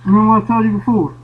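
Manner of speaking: muffled through an air mask; talking through a sealed face mask; firefighter air mask. Real, not acted. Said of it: "I know it's hard to hear me".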